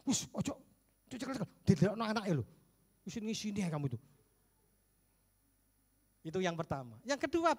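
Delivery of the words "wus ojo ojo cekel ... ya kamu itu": a touch of a flustered wife waving him off, fast; fast and shooing, don't hug me in front of the kid; mock brushing off. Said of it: "Gimana respon mamanya?".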